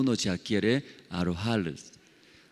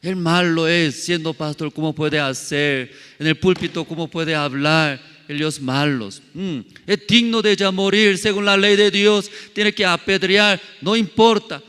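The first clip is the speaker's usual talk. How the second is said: high, loud, furious crowd yelling; angry mob shouting at the pastor; shouting accusation; 7 semitones higher, 5 dB louder than usual. Pretend. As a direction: yell it like a crowd ready to stone him. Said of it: "Imagínese usted ya gritando".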